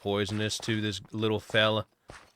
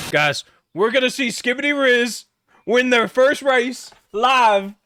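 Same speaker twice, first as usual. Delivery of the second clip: very high, loud alien voice hyping the race; pitched-up alien puppet rallying the chat for the race; squeaky alien hype; 8 dB louder than usual. Acted. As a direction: shout it up like a tiny excited alien announcer. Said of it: "hypes horse race in alien voice".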